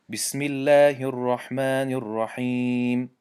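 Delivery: slow, measured recitation; Quran recitation. Shown as a demonstration. Teacher opening the examples with a slow Quranic recitation. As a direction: recite it slowly and reverently.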